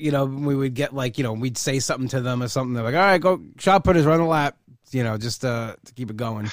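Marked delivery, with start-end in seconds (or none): 2.9-4.6 imitating a coach barking orders, louder; mock coach yell. Coach yelling at the shot putters to run, loud. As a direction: shout it like a gym coach.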